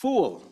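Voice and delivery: "Full" said alone, drawn out and falling; emphasis on Full. Shown as a demonstration. Teacher stresses taking full ownership, "Full" firmly emphasized. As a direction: put firm weight on "Full". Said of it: "Emphasis on the word full".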